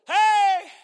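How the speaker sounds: high, loud Hey to catch the dog; retold call. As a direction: call out to grab attention. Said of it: "get over there and go".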